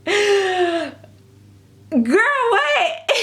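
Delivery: gasp, then squeal it in disbelief; shocked disbelief. Retold or imitated. Reacting to the rude artist, squealing disbelief. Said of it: "I was like".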